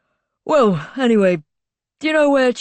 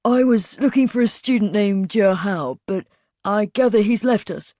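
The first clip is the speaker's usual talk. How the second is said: cheerful; 3 semitones higher than usual. A narrator's reading. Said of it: "said cheerfully from the doorway".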